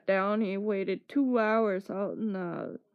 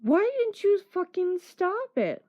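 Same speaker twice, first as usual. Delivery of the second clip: mock angry demand; 7 semitones higher than usual. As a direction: fire it up at a friend who let it happen. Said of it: "you know what I said to Dana".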